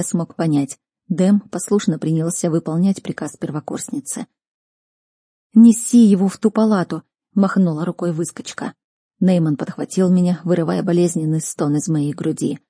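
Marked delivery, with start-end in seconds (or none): 5.5-7.0 raised, louder command; higher-pitched, take-charge voice; brisk order. A narrator's reading. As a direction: send them off with a firm instruction. Healer orders friends about patient.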